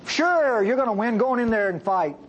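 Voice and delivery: mock encouragement, not meant; facetious. Prophet mockingly tells the king he'll win, facetious. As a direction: say it so the king hears you don't believe it. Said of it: "by the tone of his voice that he was being facetious".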